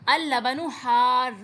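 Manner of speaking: slow, careful al-labanu harrun with the r held; doubled r in harrun. Shown as a demonstration. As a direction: lean on the shadda in حار, hold the doubled r and end in -un. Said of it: "حار کے اوپر تشدید ہے".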